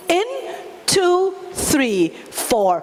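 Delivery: sing-song breathing count; counting breaths. Shown as a demonstration. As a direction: count through the long exhale. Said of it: "breathe in for four, hold".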